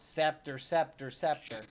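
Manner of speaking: mild mock yell of a command word. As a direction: call it out in a half-hearted yell. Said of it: "Jacques starts yelling out".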